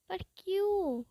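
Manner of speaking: a high, startled question; high startled squeak; shocked why. Retold or imitated. Friends shocked he didn't eat.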